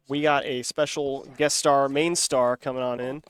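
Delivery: slow, loud hype introduction; drawn-out showman announcement; hype announcer intro. Real, not acted. Announcing a guest joining.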